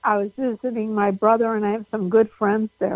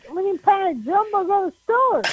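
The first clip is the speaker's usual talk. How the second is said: mock Pittsburgh accent; 9 semitones higher than usual. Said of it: "a Pittsburgh native who's like".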